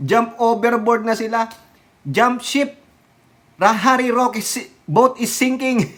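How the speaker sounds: high-pitched, teasing call to abandon ship; mock alarm. Vlogger teasing a politician about his sinking boat, mock alarm.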